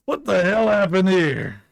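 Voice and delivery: high, loud outburst; loud disbelief. Acted. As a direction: exclaim it loudly, demanding an explanation. Acted alarm at a scene.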